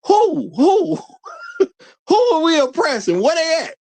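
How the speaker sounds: high-pitched incredulous call. Real, not acted. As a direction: shout it out, daring anyone to answer. Mock challenge calling out.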